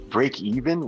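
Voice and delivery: slow, incredulous echo with a laugh; can't believe what he just heard; amused disbelief at break even. Real, not acted.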